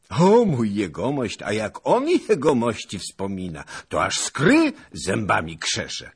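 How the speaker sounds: loud, high excited report; eager servant. A narrator's reading. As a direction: exclaim it with flattering gusto.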